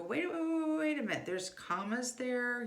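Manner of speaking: put-on a parent cutting in on a child's reading; interrupting parent. Parent stopping a child who races through a paragraph, urgent and high.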